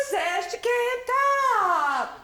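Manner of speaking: high, loud, slow yell; yelling back. Acted. Stella Rondo yelling down the stairs, high and slow. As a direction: yell it down from upstairs. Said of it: "yells back".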